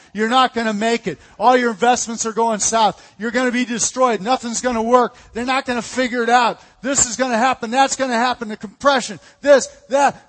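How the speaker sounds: fear hammering you with bad news; fear yelling. Preacher voices fear yelling threats at believers, building to a shout. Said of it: "is yelling at us every day".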